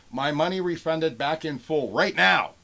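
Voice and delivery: imitated all-caps yelling. Seller reading a buyer's refund demand, imitated yelling. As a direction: build to a mock shout at the end. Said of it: "all in caps again".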